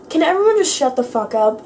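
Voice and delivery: mock blow-up at nosy classmates; mad outburst. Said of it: "And I just got mad".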